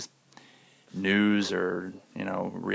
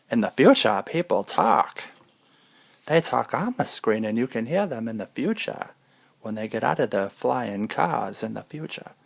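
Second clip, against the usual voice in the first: mock old newsreel; 2 semitones higher, 4 dB louder than usual. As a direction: boom it like a 1920s newsreel. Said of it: "Like we're in the nineteen twenties".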